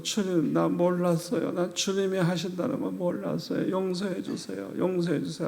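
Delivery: soft, mildly pleading prayer; subdued retelling of a tearful apology; retold tearful plea. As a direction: lightly imitate begging for forgiveness, hushed. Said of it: "그래서 내가 막 울면서".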